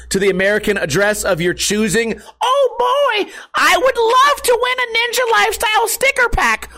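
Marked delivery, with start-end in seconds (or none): 2.4-6.7 high, squeaky excited fan voice; fake eager fan. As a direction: play an overexcited viewer begging for the prize.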